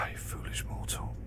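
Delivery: mock dark lord; low unvoiced villain growl. Sighs then mock villain line.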